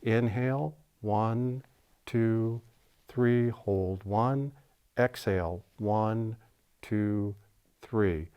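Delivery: measured, softly spoken count with pauses; breathing count demonstration. Shown as a demonstration. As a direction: count out the breath slowly and evenly. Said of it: "let me just demonstrate first".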